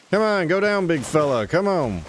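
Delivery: high coaxing voice to a dog; steady voice to growling dog. Real, not acted.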